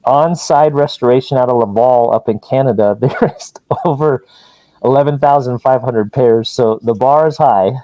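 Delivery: muffled through a mask. Real, not acted. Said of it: "you kind of broke up a little. I think your mask might be reverbing".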